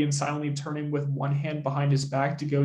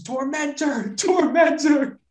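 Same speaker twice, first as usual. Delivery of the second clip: high, drawn-out theatrical cry; a hammed-up scream, louder on the repeat; mock scream; 9 semitones higher, 4 dB louder, slower than usual. Underground man screaming after his butler, hammed-up scream. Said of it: "like, screams".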